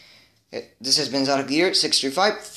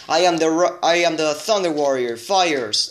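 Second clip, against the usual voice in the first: robot voice; 3 semitones higher than usual. Retold or imitated. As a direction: announce it like a battle robot. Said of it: "only that the robot says".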